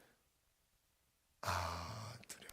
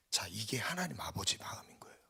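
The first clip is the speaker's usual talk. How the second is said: soft emphasis; 4 semitones lower, 7 dB quieter than usual. Real, not acted. Softly stating God's heart.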